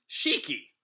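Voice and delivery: high-pitched, falling name call. Acted. Rebecca calls to Shiki, high-pitched calling out. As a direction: call after him in a high voice. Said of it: "Rebecca calls to him".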